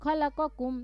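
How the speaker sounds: quick run through the phrase, pausing after; brisk demo recitation. Shown as a demonstration. Teacher shows where to pause mid-verse. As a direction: rattle it off up to the stop. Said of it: "যদি না পারেন তাহলে".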